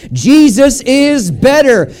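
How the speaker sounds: "Jesus is better" slow and emphatic, word by word; leading a chorus. Shown as a demonstration. Preacher has church repeat "Jesus is better", slow emphatic chorus lead. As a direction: draw out "Jesus is better" so all can join. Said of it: "Would you say that with me?".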